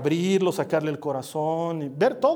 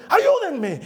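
much higher, louder call with a laugh; half-laughing cry for help; 10 semitones higher, 4 dB louder than usual. Retold or imitated. Preacher retelling calling the crowd for help, laughing shout. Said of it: "les dije".

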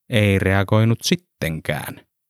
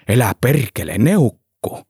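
shocked exclamation; 3 semitones higher than usual. A narrator's reading. Driver shocked Antti is Soviet.

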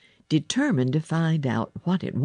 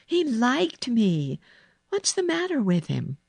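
put-on higher-pitched girl introducing herself; Mary; 8 semitones higher than usual. A narrator's reading. Girl answering the sick boy, high and composed. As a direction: announce it in a raised girl's voice.

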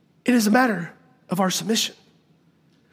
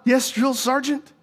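goofy drawn-out country drawl; slow, soft, dopey yes-sir reply; Gomer Pyle voice; 4 dB quieter, slower than usual. Retold or imitated. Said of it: "I did my best Gomer Pyle".

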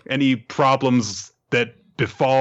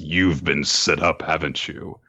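lower, grave knowing tone; hint darkly at a plot; lightly voiced ominous hint; meaningful remark; 5 semitones lower than usual. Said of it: "Magu says meaningfully".

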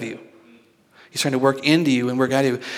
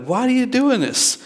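slow, high-pitched motherly exasperation; acted mom demanding an explanation; worked up; 9 semitones higher, slower than usual. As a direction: stretch out the question, pitch way up. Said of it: "kinda, like, worked up".

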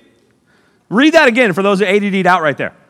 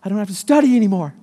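cheering student; 4 semitones higher than usual. Retold or imitated. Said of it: "You're like".

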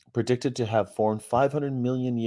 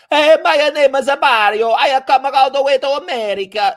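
put-on very high, loud caricature Italian kid; hammed-up Italian boy's voice, pitched way up; ridiculous Italian accent; 11 dB louder than usual. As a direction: belt it out in a thick mock Italian accent. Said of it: "ridiculous accents".

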